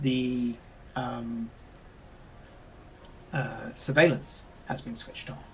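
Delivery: fighting off a sneeze while talking; holding back a sneeze. Real, not acted. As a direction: talk while stifling a real sneeze. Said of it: "I'm trying not to sneeze, so my eyes are watering".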